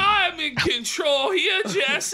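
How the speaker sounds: high, loud, slow command; bossy shout. Retold or imitated. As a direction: yell it like a boss. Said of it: "He's like".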